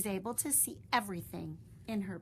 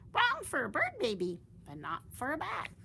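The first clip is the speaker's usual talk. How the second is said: higher, louder then settling; a lightly voiced bat; a bat answering; 5 semitones higher, 4 dB louder than usual.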